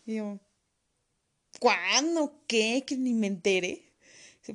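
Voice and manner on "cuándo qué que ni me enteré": louder, stunned questions; can't believe it's over; shocked disbelief. Retold or imitated. Shocked patient questions doctor. (incrédula, más fuerte)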